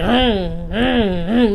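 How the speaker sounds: short hummed car revs; imitated engine revving. Storyteller mimicking someone revving their car up, hummed engine noise. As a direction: hum like an engine being revved. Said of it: "revving their car up".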